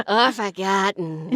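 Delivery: slow, playful celebrity impression; Jennifer Coolidge. Student echoing the coach's impression, slow and playful. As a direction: draw it out for a laugh. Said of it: "I can't do Jennifer Coolidge".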